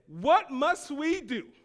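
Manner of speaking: loud, high, drawn-out plea; emphatic preacher voicing a crowd's question; urgent crowd's cry. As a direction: cry it out slowly as the convicted crowd.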